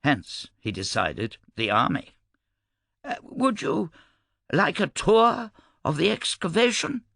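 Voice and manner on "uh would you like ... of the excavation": much higher, chirpy offer; cheerful. A narrator's reading. Cressel offers Mikkel a tour of the dig, cheerfully. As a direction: offer it with cheery, lilting high pitch. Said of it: "Cressel asked cheerfully".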